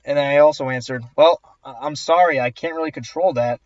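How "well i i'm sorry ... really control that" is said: sarcastic mock apology. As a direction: put on an insincere sorry. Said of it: "in the most sarcastic voice ever".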